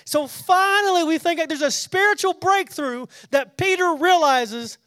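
high, loud, lifted voice; preacher at full fire; fervent preaching. Real, not acted. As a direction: proclaim it like good news. Preaching the breakthrough.

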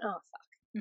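soft, under-the-breath retold curse; muttering husband. Husband drops a burger in the dirt, quiet dismayed swear. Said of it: "he went".

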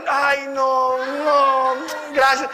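loud mock-horrified no thanks; loud refusal. Turning down his friend's fasting invite with a loud mock refusal. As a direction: push back loudly, half joking.

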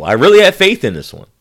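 loud, high burst of hope; mock lament. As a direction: sell the faith like a big letdown. Mock lament over broken player.

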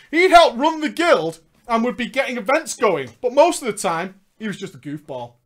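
projected read-aloud storytelling; narrating a gaming memoir; story narration. Acted. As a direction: read the tale out to listeners. Reads story aloud amid own chat.

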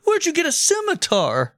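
shrill alarmed question; high panicked squeal. Retold or imitated. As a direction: squeak it in disbelief.

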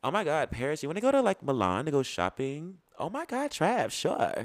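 put-on high, airy rich-girl voice; playing bougie Paris. Pretending Paris gushes to his friend about a Milan trip, high voice. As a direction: gush like a spoiled socialite. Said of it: "a little bit of each of my little personalities".

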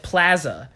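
PLAZA with flat A as in "cat"; "plaza" with a drawn-out short A; imitated regional accent. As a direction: say "plaza" as "PLAA-zuh". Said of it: "like, pla, instead of ah".

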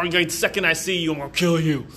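hammed-up angry growl, trailing into noise; exaggerated mock threat. Co-host overacting Barry confronting the villain, mock rage. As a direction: overplay the threat, dragging out the end. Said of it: "I might have exaggerated that part".

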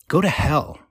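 yawning. Acted. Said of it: "Jenny yawns in my face".

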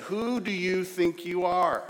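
slow, gentle, inviting question; invitational. Shown as a demonstration. Preacher inviting the congregation to ask themselves, invitational. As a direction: ask it as a welcome, not a challenge. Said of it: "in an incredibly invitational way".

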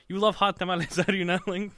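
put-on Spanish accent. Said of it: "his Spanish accent".

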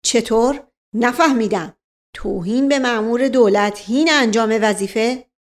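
officer interrupting, lightly voiced; cutting in. Officer cutting off the lady, mild indignation. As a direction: snap back at her. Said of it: "توی دل او پرید".

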